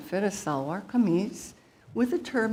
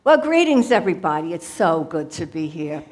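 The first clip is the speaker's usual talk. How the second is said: lightly voiced chatty mother guru; Guru Maya Yo Mama. Comedian's alter ego addresses the audience as a playful mother guru. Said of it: "she will take it from here".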